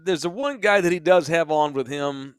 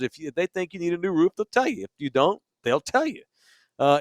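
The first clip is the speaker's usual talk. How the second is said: ad read. Acted. Live ad read for sponsor.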